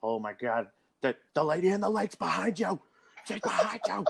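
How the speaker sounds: high-pitched posh cartoon pig; squeaky cartoon pig warning; Peppa Pig voice. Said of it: "all I hear is".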